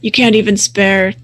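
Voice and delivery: slow, gruff werewolf taunt. Acted. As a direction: draw the words out menacingly in a gruff voice. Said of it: "in a gruff voice".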